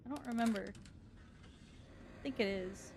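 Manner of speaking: slow hushed whisper. Real, not acted. Creeping through the dark house, whispering. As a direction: breathe the words out.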